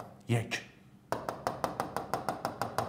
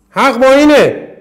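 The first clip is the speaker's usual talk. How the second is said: اینه hit higher and louder, falling hard at the end; emphatic loud repeat; 7 semitones higher, 7 dB louder, slower than usual. Shown as a demonstration. Teacher hammering the rule to students, loud emphatic. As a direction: shout اینه home with a strong fall.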